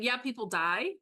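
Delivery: breezy, offhand aside with a slight lift; flippant. Real, not acted. Host brushing off movie deaths to co-host, flippant. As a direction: toss it off as no big deal. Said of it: "the way I say that so flippantly".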